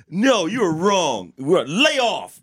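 hammed-up high-pitched squabble; mock quarrelling girlfriend. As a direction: whine back like an arguing lover. Cohost keeps mimicking the quarrel.

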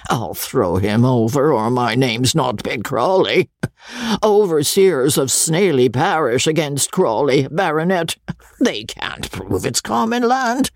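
boastful coarse squire, lightly voiced; crude old baronet. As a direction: brag like a vulgar old lord.

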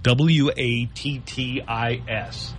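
slow, letter by letter; spelling it out. Shown as a demonstration. Co-host explaining a pronunciation trick, slow spelling. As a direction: spell W A T T I S deliberately. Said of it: "Pretend it's spelled".

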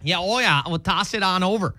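folksy Minnesotan imitation; Midwestern accent. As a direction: play along in a Midwestern accent. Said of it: "love the Midwestern accent".

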